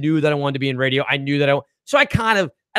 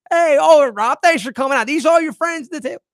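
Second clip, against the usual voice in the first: imitating the comedian working the room; comic's crowd-work voice; 10 semitones higher than usual. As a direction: call out to the crowd like a club comic. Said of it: "and he goes".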